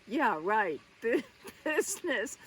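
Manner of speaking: loud, knowing scoff with a laugh; sarcastic disbelief. Real, not acted. Mocks the butler's euphemism for affair.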